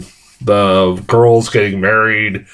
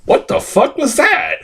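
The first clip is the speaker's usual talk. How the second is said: pitched way up, incredulous; stunned disbelief; 14 semitones higher than usual. Retold or imitated. Reviewer recalls seeing the trailer, asking in high disbelief. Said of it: "I'm like".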